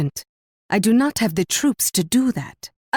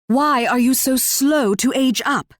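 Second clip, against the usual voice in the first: higher-pitched exasperated question; impatient chiding; 5 semitones higher than usual. Acted. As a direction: chide a dawdling ally, pitch lifted. Queen chides a lagging ally.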